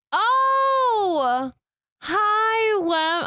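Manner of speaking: high, bright surprised greeting. Pretend. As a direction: act startled to see him. Greeting a character in the game.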